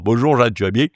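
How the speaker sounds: put-on the same stock southern French accent, lightly pushed; southern French accent as a comic trademark; exaggerated southern accent. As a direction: play up the southern French twang a little. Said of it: "tu as toujours le même accent".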